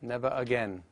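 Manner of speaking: "never again" with the R sounded to link into "again". Shown as a demonstration. Teacher demonstrates linking R in "never again". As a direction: join "never" to "again" with a clear R. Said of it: "then it becomes never again".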